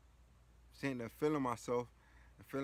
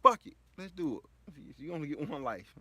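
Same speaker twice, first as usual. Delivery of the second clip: higher, louder urging voice; his conscience pushing him hard; conscience shouting; 5 semitones higher, 8 dB louder than usual. Retold or imitated. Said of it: "my conscience just jumped in".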